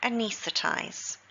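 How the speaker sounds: anaesthetize slow, stress on nees; slow teaching model of anaesthetize; stress on second syllable. Shown as a demonstration. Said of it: "but still pronounced the same".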